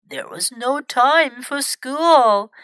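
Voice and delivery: slow, understated regret; a touch of sadness, drawn out; mildly sad. Acted. Grandfather answers Millie about school, mildly sad. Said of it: "said MacArthur sadly".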